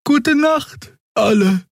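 very high, lilting sleepy goodnight; Xea's goodnight. A narrator's reading. Xea bids the crew goodnight, high and sleepy.

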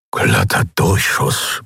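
slow, breathless, half-whispered; can't believe they survived; stunned murmur. Acted. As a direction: Keru gets up, disbelieving, murmuring. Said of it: "murmelte er, als könnte er es nicht glauben".

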